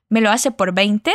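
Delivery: rising question tune ending on "veinte"; careful question intonation. Shown as a demonstration. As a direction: lift "veinte" at the end, as a question. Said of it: "cuidando la entonación".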